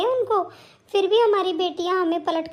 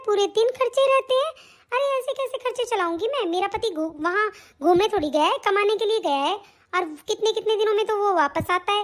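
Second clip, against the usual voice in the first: higher, sharp scolding voice of a bossy bahu; scolding daughter-in-law; 3 semitones higher than usual. Acted. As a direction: nag her mother-in-law from above. Daughter-in-law grumbles alone.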